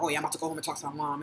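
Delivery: quick, low, offhand quote; casual friend. Retold or imitated. Imitating friends heading home to talk to mom, casual. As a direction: toss it off lightly and fast. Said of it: "none of my black friends used to say that".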